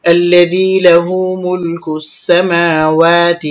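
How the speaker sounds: slow tajweed chant with long vowels; Quran recitation. Shown as a demonstration. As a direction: recite slowly, syllable by syllable. Recites the verse just spelled out.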